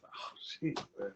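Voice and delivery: whispered retold reaction; very soft, voiceless aside; hushed amazement. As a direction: breathe it out under the voice, imitating stunned awe. Child stunned by stack of money.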